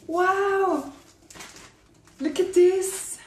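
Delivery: high-pitched, wowed excitement; amazed delight. Real, not acted. Vlogger showing the gift to viewers, amazed delight. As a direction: show it off in high, thrilled amazement. Admiring the gifts.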